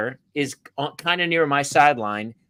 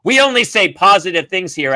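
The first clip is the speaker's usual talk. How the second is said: raised, louder mock scolding; angry referee; 4 semitones higher, 6 dB louder than usual. Referee telling off parent at game, mildly angry. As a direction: imitate an indignant official laying down the rule. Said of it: "so angry. He goes".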